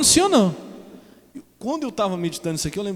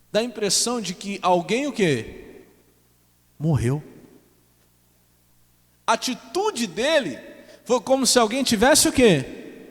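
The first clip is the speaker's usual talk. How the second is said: higher, louder impassioned preaching; fervent preaching; 5 semitones higher, 3 dB louder than usual. Acted. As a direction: drive the message home to the congregation. Preaching at rising force. (pregação fervorosa, voz elevada)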